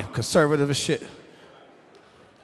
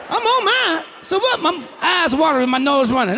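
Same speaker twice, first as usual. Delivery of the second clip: put-on strained old man; 8 semitones higher than usual. Acted old couple in bed.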